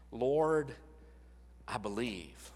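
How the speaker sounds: a father in tears, fading to almost nothing; tearful plea. Retold or imitated. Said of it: "he cries out with tears".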